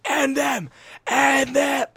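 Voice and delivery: high, loud battle cry to teammates; crazed yelling. Retold or imitated. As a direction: reenact a wild rallying shout. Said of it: "I just kept going crazy".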